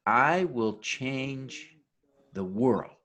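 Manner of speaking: slow oath, "world" set apart after a pause; stress on WORLD. Shown as a demonstration. Speaker leading the oath's last round, stress on "world". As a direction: hold off, then land on "the world" by itself. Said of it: "each time we'll emphasize a different word".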